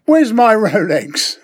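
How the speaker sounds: mild, stretched-out mock scream. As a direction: wail it slowly in hammed-up horror. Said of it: "he screamed".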